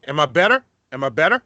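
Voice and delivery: ordinary delivery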